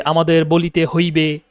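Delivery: put-on slow, old-style literary Bengali; formal sadhu bhasha Bengali. Shown as a demonstration. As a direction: read it in the formal sadhu register, slowly. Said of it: "আমরা যদি সাধু ভাষায় বলতে চাই". (ধীরে সাধু ভাষায় বলা)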